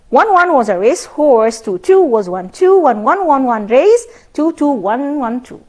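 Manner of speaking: every one and two said slowly and distinctly; slow tongue twister. Shown as a demonstration. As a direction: lay the one-one-two rhythm out slowly for the class. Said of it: "Can you do it".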